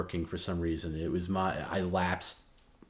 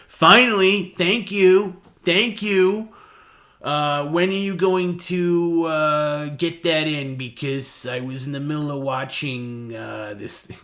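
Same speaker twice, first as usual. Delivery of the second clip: much higher, loud delighted gush; overjoyed Perry; 9 semitones higher, 9 dB louder, slower than usual. Retold or imitated. Perry hearing his Disney Plus works, gushing with delighted relief. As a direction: switch from sympathy to sudden glee. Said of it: "he immediately changed".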